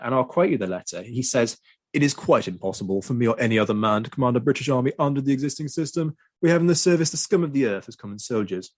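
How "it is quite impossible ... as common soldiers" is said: put-on commander's voice, pitched up; Wellington. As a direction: imitate a haughty general dictating a letter. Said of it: "that's what he sounds like".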